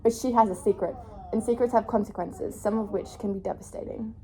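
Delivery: reading the back cover like a book trailer; dramatic blurb read, lightly done. Acted. Reads book blurb aloud.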